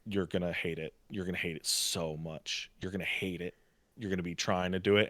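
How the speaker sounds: put-on quiet, knowing old lady voice; older lady. Older lady advising the new parents, soft and low. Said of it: "an older lady was like".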